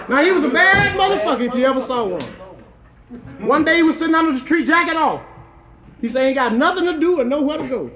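rhythmic comic storytelling in verse; rhymed toast recitation. A narrator's reading. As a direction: recite it like a bawdy rhyming tale.

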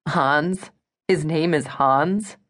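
slow disbelieving Hans?, rising; incredulous. Acted. Eliza repeats the bodyguard's name back to Gwen, amused disbelief.

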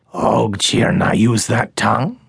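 a hint of an odd creature, amazed; awed creature voice. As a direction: marvel at it in a small creature voice. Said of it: "still in awe".

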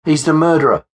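high, alarmed accusation; narrator's acted outcry; crying out. A narrator's reading. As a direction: cry out in horror, pitched well up. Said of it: "she cried out".

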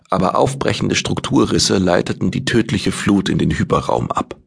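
usual speaking voice

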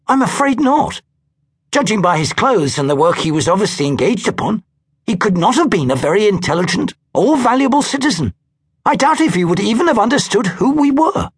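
a touch of haughty disdain; lightly voiced Christine looking down on the man; Christine, dismissive. A narrator's reading. Christine's voice in reading.

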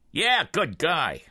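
slow, far voice of the brother-in-law; flat agreement, no interest; flatly. A narrator's reading. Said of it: "agreed flatly".

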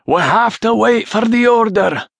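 high, forceful yell across the ranks. A narrator's reading. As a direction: yell it back, holding the men in check. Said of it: "Rory yelled".

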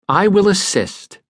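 understated exclaim. A narrator's reading. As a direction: lift it like an eager vow. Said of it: "I exclaimed".

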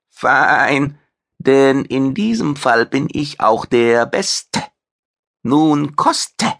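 a vain chef bragging about his fame; proud alien chef. Acted. Maitre leans in, proud.

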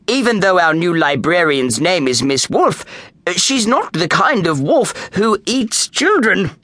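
jolly principal. Acted. Principal Kidney reassures.

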